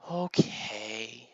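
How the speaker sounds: slow, mildly deflated okay; disappointed sigh. Acted. Timmy accepts mother's answer, mildly disappointed. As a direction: give in with a drawn-out, let-down okay. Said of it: "he sighed and said".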